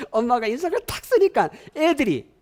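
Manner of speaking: laughing through the words; can't help chuckling as you tell it; real amused laughter while speaking. Real, not acted. Laughing while telling the story.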